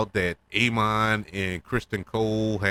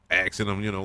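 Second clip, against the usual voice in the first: usual speaking voice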